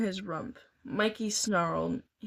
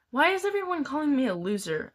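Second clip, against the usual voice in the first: weak whine; 6 semitones higher, 4 dB louder, faster than usual. A narrator's reading. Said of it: "I asked weakly".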